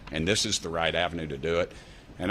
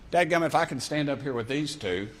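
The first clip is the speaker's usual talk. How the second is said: heated rant; 7 semitones higher than usual. Real, not acted. Congressman's passionate rant.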